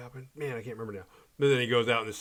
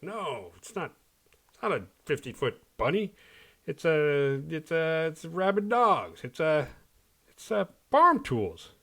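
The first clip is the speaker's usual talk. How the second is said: higher, hammed-up panicky voice; mocking explanation; 5 semitones higher than usual. Townsfolk explaining away the bunny, hammed-up panicky voice. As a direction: play the doubter, rising into panic. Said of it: "He has an explanation that".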